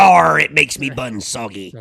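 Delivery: playful pirate growl on "Arr". Pretend. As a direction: say it like a cartoon pirate. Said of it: "Spoken like a pirate".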